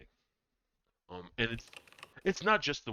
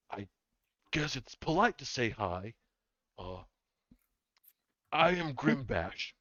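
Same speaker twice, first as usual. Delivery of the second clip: shy apprentice; 4 semitones higher, 3 dB louder than usual. Acted. GM voices young dwarf apprentice.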